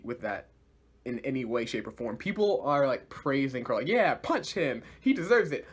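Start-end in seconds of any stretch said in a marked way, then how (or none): 3.9-5.7 higher-pitched egging on; mock cheering. Fans praising Crow for the punch, mock cheering. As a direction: imitate fans approving of a punch.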